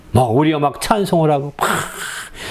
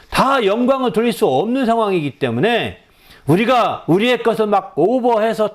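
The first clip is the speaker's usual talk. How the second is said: usual speaking voice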